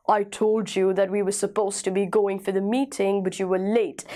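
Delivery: slow, deep, attractive husky voice. Shown as a demonstration. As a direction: drop low and husky, take your time. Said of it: "इस प्रकार की आवाज़ को हम husky voice कहते हैं". (धीमी, गहरी हस्की आवाज़)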